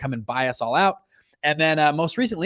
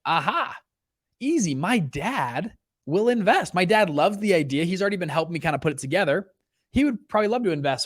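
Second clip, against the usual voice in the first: eager brainwave; 5 semitones higher than usual. Retold or imitated. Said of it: "I said".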